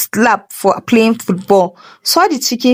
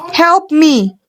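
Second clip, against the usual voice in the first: scream for help; 6 semitones higher than usual. A narrator's reading. Landlady mid-transformation, desperate cry for help. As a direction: cry out in terror. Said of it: "Mama G tried to scream".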